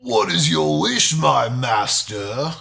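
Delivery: low, slow booming genie voice. Shown as a demonstration. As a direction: drag it out like a magic genie. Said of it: "you do the voice of what he".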